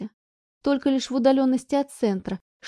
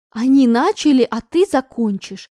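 sharp retort; 2 semitones higher, 9 dB louder than usual. Acted. Mother retorts to daughter's excuse, loud then stern. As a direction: snap it back then lay down the law.

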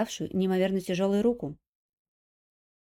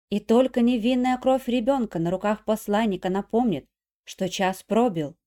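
solemn prophecy; 4 dB louder than usual. Acted. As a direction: intone it like a prophetess. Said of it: "торжественно цитируя пророчество". (торжественное пророчество)

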